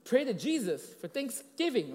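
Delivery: put-on slow, high little-girl pipe-up; piping little girl. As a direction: pipe up like a small schoolgirl. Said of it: "she just piped out".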